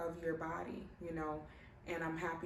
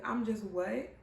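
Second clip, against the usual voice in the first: stunned disbelief; 3 semitones higher, 5 dB louder, slower than usual. Retold or imitated. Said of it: "I was like".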